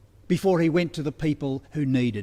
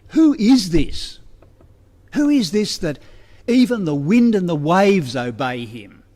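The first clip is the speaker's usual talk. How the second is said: awed question; 5 dB louder than usual. Retold or imitated. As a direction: ask it in wonder, as if stunned by the calm sea. Disciples' awed question retold.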